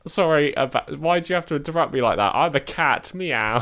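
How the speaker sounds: high, loud, indignant cat voice; an offended cat interrupting. Pretend. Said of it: "I'm a cat with a British accent".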